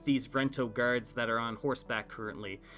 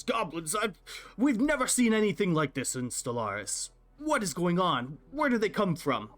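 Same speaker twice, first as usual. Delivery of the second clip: a higher, agitated half-orc voice raving about goblins; worried half-orc innkeeper raving to the guards about goblins, pitched higher; ranting half-orc innkeeper; 5 semitones higher than usual. Acted. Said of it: "ranting and raving about goblins".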